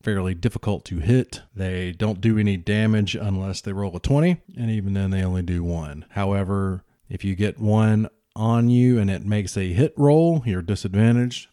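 explaining the rules to the audience; narrator voiceover. Acted. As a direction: clear explainer commentary.

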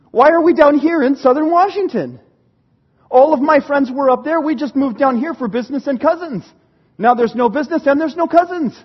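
mock kid's protest, pushed a little; indignant complaint. Boy complains about moving south for nothing, indignant. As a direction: protest like a put-out youngster. Retold childhood complaint after the move.

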